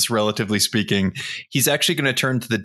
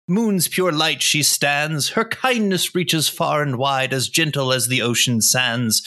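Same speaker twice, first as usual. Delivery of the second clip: loud recital; 5 semitones higher than usual. Acted. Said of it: "in a loud voice".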